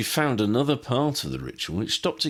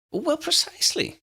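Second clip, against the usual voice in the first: put-on high, admiring old wizard voice; small wizard, impressed; eager little professor. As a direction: pitch it up and marvel. Flitwick voice.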